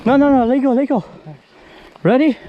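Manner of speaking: loud, high calls to the crew; shouting instructions. Real, not acted. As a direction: shout orders over the work. Calling out during heavy lift.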